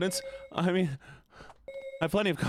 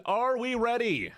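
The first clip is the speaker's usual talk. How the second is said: high, slow crowd call; hype call to chat; 9 semitones higher than usual. Acted. Streamer calling out to chat, hyping them up. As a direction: rev up the crowd like a host. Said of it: "I said".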